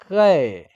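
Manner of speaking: कै said clearly as kai, a long open vowel; kai sound. Shown as a demonstration. Teacher showing students how to say कै. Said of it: "तो के double रहेगा तो क्या है".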